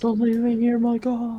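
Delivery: high, pleading call into the fog; desperate calling out. Acted. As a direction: cry out, afraid of being left. Calling out to vanished friend.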